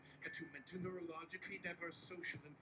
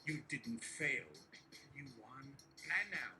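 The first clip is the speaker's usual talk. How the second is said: Donald Trump impression. Trump to nervous aide Barry, boastful and coaxing. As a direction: reassure Barry like Trump spinning a win.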